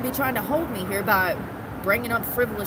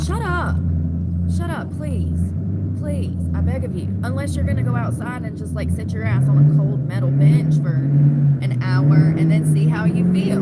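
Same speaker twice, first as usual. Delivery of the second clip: shouting in exasperation; loud angry rant; 5 semitones lower, 9 dB louder than usual. Real, not acted. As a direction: yell it, fed up and loud. Angry rant at cold-dismissers.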